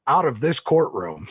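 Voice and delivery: loud, slow stern judge order. Retold or imitated. Judge sends lawyer out of the courtroom, slow stern order. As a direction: lay down the ruling slowly. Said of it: "He goes".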